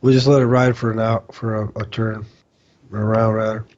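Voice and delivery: talking through hiccups. Real, not acted. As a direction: speak between hiccups. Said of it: "Man, I get the hiccups".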